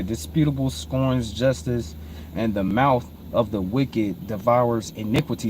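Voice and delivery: low, soft verse reading; scripture reading. Real, not acted. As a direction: reread the verse quietly and evenly. Rereads the verse.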